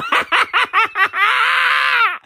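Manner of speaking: big high cackle bursting out. Real, not acted. Laughs at his own joke.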